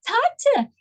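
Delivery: high, pleading call to a father; anguished cry. Retold or imitated. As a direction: call out to him in despair. Crying out to his father.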